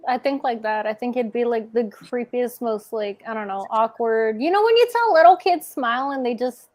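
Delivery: talking with braces bands on; with a sore jaw. Real, not acted. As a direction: keep the jaw tight while speaking. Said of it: "so I can't open my mouth much".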